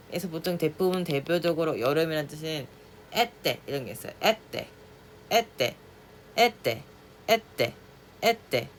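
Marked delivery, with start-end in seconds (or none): 4.2-7.7 에떼 set high in pitch; high pitched été. Shown as a demonstration. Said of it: "높게 잡았죠". (높게 잡은 에떼)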